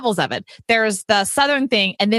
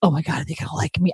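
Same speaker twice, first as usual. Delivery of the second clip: quick, softer mock panic; 6 semitones lower, 3 dB quieter, faster than usual. A speaker before a crowd, quick mock panic. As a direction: rush it out like a nervous wreck. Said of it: "I didn't have any of this, like".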